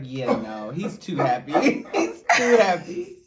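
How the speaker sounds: a hint of a disapproving dad; lightly voiced stern father, laughing; dad's low grumble. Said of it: "He'd be like".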